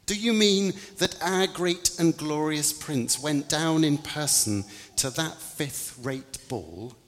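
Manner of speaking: put-on high, incredulous young angel; a young angel, shocked and disbelieving; little angel voice. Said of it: "The little angel's face wrinkled in disgust".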